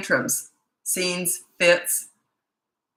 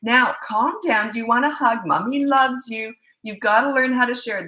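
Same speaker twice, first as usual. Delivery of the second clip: mocking other mom; 4 semitones higher than usual. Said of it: "This is the other mom".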